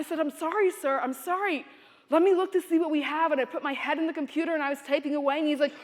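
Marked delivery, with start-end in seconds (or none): 0.2-3.3 acted-out clerk, slightly higher and hurried; flustered apology. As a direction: apologize quickly to placate an angry customer. Flustered clerk placating a screaming customer.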